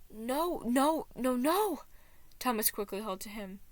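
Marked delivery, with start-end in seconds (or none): 0.1-1.8 rising louder no no no; insist, building up to a loud no; protesting no. Acted. Thomas refusing Anxiety's words, building to a shout.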